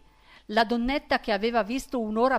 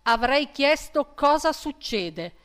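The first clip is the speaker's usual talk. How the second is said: stern question; 2 semitones higher, 7 dB louder than usual. A narrator's reading. Brigadier demanding why Misfatti shouted, loud and slow. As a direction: lean on him, slow and loud.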